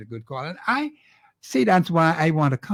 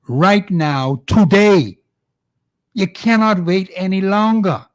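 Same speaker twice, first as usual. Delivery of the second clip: louder and higher, rallying shout; urgent call; 3 semitones higher, 9 dB louder, slower than usual. Real, not acted. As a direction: rouse the listeners to move today. Host rallies listeners to act.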